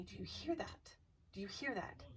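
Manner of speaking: softly imitating his hushed question. Chapter guy keeps asking her in the haunted basement, hushed.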